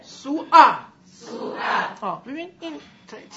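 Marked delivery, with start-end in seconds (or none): 0.0-0.7 سو ا snapped hard and loud at the glottis; loud high glottal drill; loud glottal demo. Shown as a demonstration. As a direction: hit the stop in سو ا. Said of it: "تای حلقت بگو".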